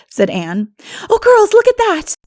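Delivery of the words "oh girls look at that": put-on high, loud, thrilled girl's cry; delighted exclamation; excited call. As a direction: call the girls over in wonder. Anne spotting the pool.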